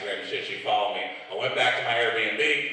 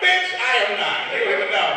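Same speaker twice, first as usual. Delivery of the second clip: louder, higher, slowed indignant protest; mock indignant; 10 semitones higher, 5 dB louder than usual. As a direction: bristle at being called a sweetheart. Protests being called sweetheart.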